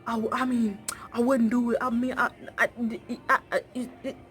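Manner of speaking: mock stammer, stuck on "it"; stammering boyfriend. The boyfriend caught out and stammering with no answer. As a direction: stutter helplessly, trailing off. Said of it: "That's how he sounded".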